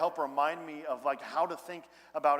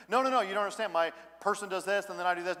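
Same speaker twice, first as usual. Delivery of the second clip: higher, louder flustered client insisting; mock protest, talking over the counselor; pleading client; 4 semitones higher, 4 dB louder than usual. Pastor acting a client arguing with a dismissive counselor, higher and louder.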